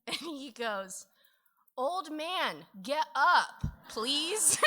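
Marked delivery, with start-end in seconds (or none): 1.8-4.6 put-on loud, high toddler order; demanding child shouting up the stairs; bossy kid demand. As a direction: boss him out of bed like a little kid. Child bossing dad awake.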